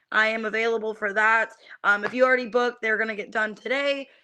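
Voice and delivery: usual speaking voice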